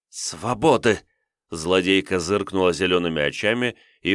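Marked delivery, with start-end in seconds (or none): 0.1-1.0 bold demand, ringing out; defiant cry. Acted. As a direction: shout it as a demand. Captive girl demands freedom.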